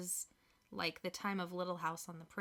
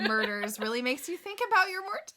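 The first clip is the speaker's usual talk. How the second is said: whisper; 7 semitones higher, 8 dB louder, faster than usual. Acted. Spooky musing on death.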